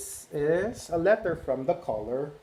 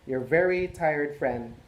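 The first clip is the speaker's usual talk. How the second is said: exhausted gray crayon; 3 semitones higher, 3 dB louder than usual. Acted. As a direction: groan about the huge animals you have to color. Gray Crayon's letter read aloud.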